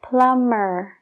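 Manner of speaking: "plumber" said as plummer; no b sound in "plumber"; silent b in plumber. Shown as a demonstration. Teacher models "plumber" with a silent b. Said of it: "es mer".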